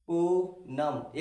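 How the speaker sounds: पूनम stretched very slowly to bring out the aa; slow sounding out. Shown as a demonstration. Teacher showing students the aa sound in the name. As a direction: hold the aa in पूनम. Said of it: "आ की ध्वनि आ रही मेरे दोस्त".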